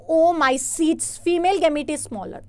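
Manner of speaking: slow reading aloud. Acted. Re-reads an option.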